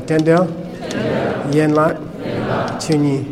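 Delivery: Den del, yen lak, chu ni in two-syllable groups; repeat in pairs. Shown as a demonstration. Teacher repeats Tibetan name for class, syllables in pairs. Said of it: "One more time".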